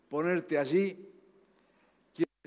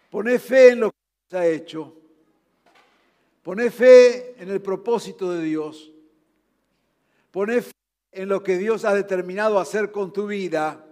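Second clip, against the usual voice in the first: loud, ringing call to put faith in God; impassioned shout; 2 semitones higher, 9 dB louder than usual. Acted. Preacher urging the downcast listener to have faith, shouting. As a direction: preach it out with full force.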